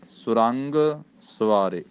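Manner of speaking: ਸੁਰੰਗ said as one joined word, not ਸੋ ਰੰਗ. Shown as a demonstration. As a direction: keep ਸੁਰੰਗ whole with a short u. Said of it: "ਸੁਰੰਗ ਇਕੱਠਾ ਹੈ ਪਾਠ".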